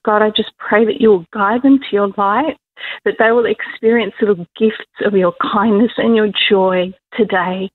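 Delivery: earnest spoken prayer, steady and sincere; intercessory prayer for those in dark places; heartfelt prayer. Acted. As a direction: pray over the listeners. Leads a prayer for listeners.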